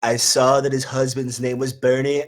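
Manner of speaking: lightly voiced Trump, rambling and boastful; a hint of Trump bragging about the campaign; Trump impression. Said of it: "That's a spot on Trump".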